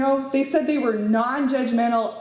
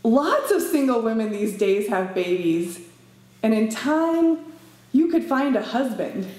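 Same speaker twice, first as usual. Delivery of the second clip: counselor's line. Acted. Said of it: "They actually said".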